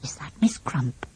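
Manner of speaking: hushed whispered question; whispering. A narrator's reading. Larry asks the others quietly about the lady, in a whisper. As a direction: whisper so the lady won't hear. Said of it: "whispered Larry".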